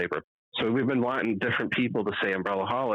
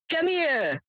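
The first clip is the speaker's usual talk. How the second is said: Italian pizza man calling out; thick Italian accent. Retold or imitated. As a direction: wave the customer over in an Italian accent. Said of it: "he's such a thick accent".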